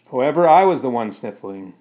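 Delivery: ordinary delivery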